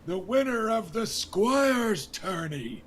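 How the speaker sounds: booming, high and loud jovial king, slowed; a hearty drunk king rallying his court; King Robert. Acted. King Robert Baratheon toasting the crowd at his daughter's tourney, loud and jovial. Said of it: "And he goes".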